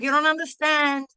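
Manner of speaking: mock-frantic son on the phone. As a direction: blurt it out like he's falling apart. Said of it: "he was really losing it".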